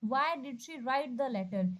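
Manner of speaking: the right answer read out slowly; slow careful reading. Shown as a demonstration. Teacher slowly reading out the correct answer. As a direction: give each word its weight. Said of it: "सबसे सही है".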